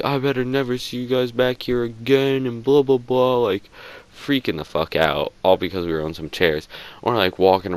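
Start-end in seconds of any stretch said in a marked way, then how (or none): 0.0-3.4 higher, put-on voice; mock manager voice. Manager ordering the boys out, put-on voice. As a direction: do a silly manager voice ordering them out. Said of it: "dude's like".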